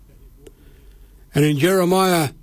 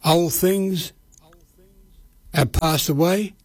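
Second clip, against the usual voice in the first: slow, measured prayer with long pauses between phrases; said slowly. Shown as a demonstration. Radio preacher leading listeners in a prayer, slow and measured. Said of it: "And I'll say it slow".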